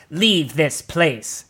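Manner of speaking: slow, solemn ancient druid warning; old druid threatening the driver; threatening old elder. A narrator's reading. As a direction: intone a curse like a forest priest.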